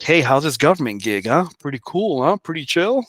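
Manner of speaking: mock-cheery teasing question; ribbing a new hire, dry and sarcastic. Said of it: "I say it sarcastically".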